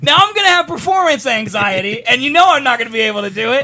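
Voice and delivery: mock-aggrieved protest. Real, not acted. Protests being dared to redo impression.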